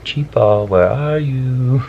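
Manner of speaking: put-on slow, high toddler call. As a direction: call out like a little kid. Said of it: "he's been saying".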